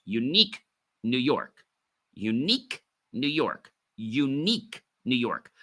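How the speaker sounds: "unique New York" spoken distinctly, word by word; tongue twister drill. Shown as a demonstration. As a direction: articulate "unique New York" as a careful warm-up. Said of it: "doing tongue twisters each morning".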